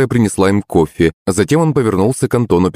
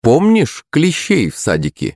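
ordinary delivery

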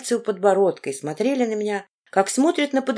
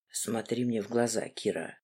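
barked order; 8 semitones lower, 11 dB quieter than usual. A narrator's reading. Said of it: "рявкнул Мартин".

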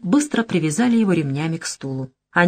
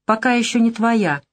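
insinuating; 3 semitones higher than usual. Acted. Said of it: "с намёком добавила".

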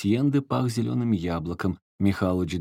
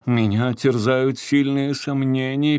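slow, louder, pompous quoting voice; quoting Bunsha; 5 semitones higher, 5 dB louder, slower than usual. A narrator's reading. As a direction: declaim it like a pompous house manager. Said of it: "перефразировал Вальдемар бессмертного управдома Боншу". (медленно и напыщенно, как управдом)

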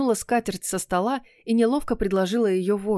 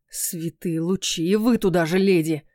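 exasperated; 2 semitones lower than usual. Acted. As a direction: roll your eyes at the whole room. Exasperated prince.

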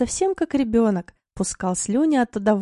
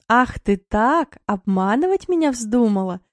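mock anger. Dima teases sleepy wife Mila, mock-angry and playful. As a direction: pretend to be cross, all in fun. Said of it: "шутя сердился он".

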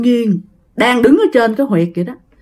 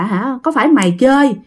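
acted worried scolding; pressing, higher-pitched telling-off; scolding mother; 4 semitones higher than usual. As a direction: raise the pitch as a mother questioning her child. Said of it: "Thím hai mới la".

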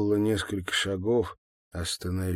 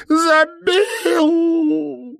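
roared out, very high and loud, wailing; roaring cry; 11 dB louder than usual. Acted. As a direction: roar it at the peak of release. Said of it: "проревела Маловец".

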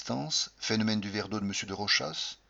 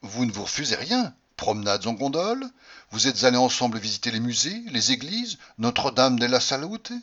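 mad jealous taunting; 3 semitones higher, 5 dB louder than usual. Acted. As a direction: taunt her like a jealous madman. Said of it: "je continuai comme un fou". (questions railleuses d'un jaloux fou)

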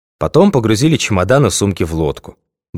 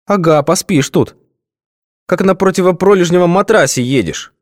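sleepy husky good morning; 11 semitones higher than usual. A narrator's reading. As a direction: grumble still half asleep. Сонным голосом.

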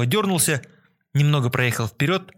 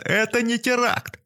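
much higher, slow wailing yell; louder frantic yelling; 10 semitones higher, slower than usual. A narrator's reading. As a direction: wail it out, losing control. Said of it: "вопил бомж".

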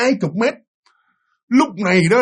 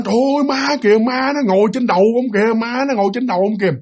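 mock scream; 5 semitones higher than usual. Wife spotting a ghost on husband's shoulders, acted alarm. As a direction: act out a frightened cry with restraint. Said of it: "cô mới la lên".

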